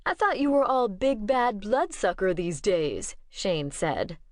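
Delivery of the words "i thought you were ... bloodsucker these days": teasing. Acted. Shane teasing Michael.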